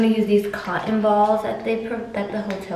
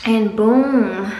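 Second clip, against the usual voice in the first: reveal flourish; 7 dB louder than usual. Real, not acted. Reveals the finished face.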